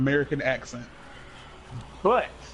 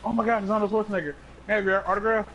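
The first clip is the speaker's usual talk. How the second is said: starstruck fan; 5 semitones higher, faster than usual. Acted. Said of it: "walked up to Arnold Schwarzenegger and was like".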